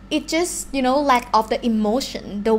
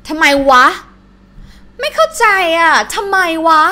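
frustrated; 6 semitones higher, 8 dB louder, much faster than usual. Shown as a demonstration. Teacher acts out confused frustration.

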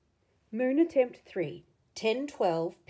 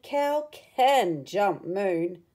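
called out; 2 semitones lower, 6 dB louder, much slower than usual. Acted. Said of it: "He called".

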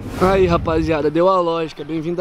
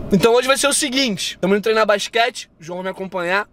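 talking through a bite of apple; chewing while talking. Real, not acted. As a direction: mouth full of apple. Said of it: "Calma que eu vou comer essa maçã".

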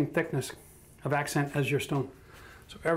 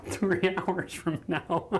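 slow words through laughter; relieved laugh at a near miss; 4 semitones higher, 4 dB quieter, much slower than usual. Real, not acted.

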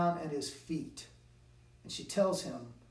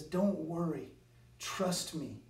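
encouraging; 5 dB quieter than usual. Retold or imitated. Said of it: "Jesus encourages him".

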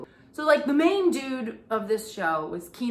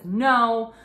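a blunt, louder no; flat, blunt refusal, louder; 7 dB louder than usual. Retold or imitated. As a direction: shut it down in one word. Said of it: "he flat out says".

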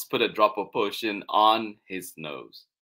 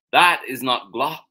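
loud, raised correction from Mouse; indignant correction; 4 semitones higher, 9 dB louder than usual. Acted. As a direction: correct it forcefully, lifted pitch. Mouse corrects, first reading.

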